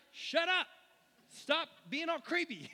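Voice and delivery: loud, high, exasperated yell; annoyed outburst. Acted. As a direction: yell it like you're fed up. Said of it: "having become greatly annoyed".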